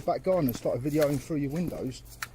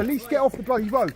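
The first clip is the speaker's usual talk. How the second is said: raised voice; 4 semitones higher, 6 dB louder than usual. Real, not acted. Scuffle on the road.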